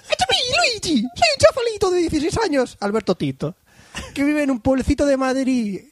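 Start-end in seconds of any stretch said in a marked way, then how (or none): 0.0-2.8 agudo, exagerado, italiano; acento de Luigi. Pretend. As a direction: lee el saludo como Luigi. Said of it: "acento de Luigi". (acento italiano de Luigi muy agudo)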